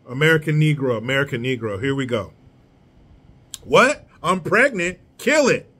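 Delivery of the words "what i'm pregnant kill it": a short sketch of a callous foreigner, mildly performed; acted foreign character. Comic acting out a migrant for viewers, lightly voiced. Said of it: "and scene".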